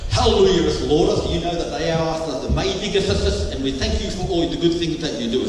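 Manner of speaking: a touch of pompous church prayer; mock King James prayer. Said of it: "we kind of pray King James Version Bibles".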